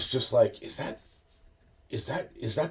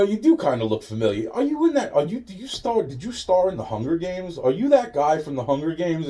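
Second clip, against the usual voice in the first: much higher, teasing voice; mock questioning; 7 semitones higher than usual. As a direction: play the wide-eyed fan, pitched way up. Imitating himself questioning the actor.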